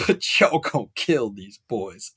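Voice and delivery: slow, lightly put-on coach voice; a hint of a movie coach, drawn out slowly; quoting Terrence Howard's coach. A hint of a proud coach firing up his players, slowly. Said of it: "quote one of my favorite actors".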